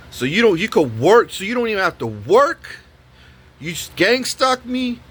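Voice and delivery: imitating an escalating rant at the tenant; going hard on her. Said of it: "And I'm going hard on her".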